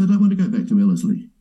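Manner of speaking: rattled off quickly, jokey; quick mock-indignant reply; fast retort. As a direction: toss it off fast with a grin. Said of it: "I say".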